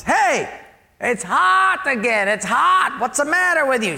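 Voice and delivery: irate customer. Acted. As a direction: berate the waiter in a hammed-up complaint. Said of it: "he was just irate".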